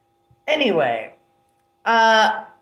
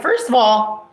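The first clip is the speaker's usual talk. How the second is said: retold angry rant; 4 dB louder than usual. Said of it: "I'm like".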